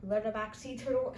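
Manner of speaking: lightly imitated British accent. Vlogger quoting their own accidental slip, British accent. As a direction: repeat the accidental British pronunciation. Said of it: "in a British accent".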